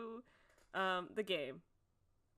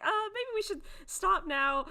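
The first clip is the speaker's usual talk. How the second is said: higher, louder acted second thoughts; hesitant suggestion; 10 semitones higher, 6 dB louder than usual. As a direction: voice a worried, tentative suggestion. Acts out Adam's hesitant worry.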